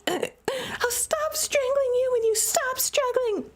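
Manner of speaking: high, slow, deliberate retort; stubborn retort. Acted. Sister holding the headlock, high slow retort. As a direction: spell out the terms slowly.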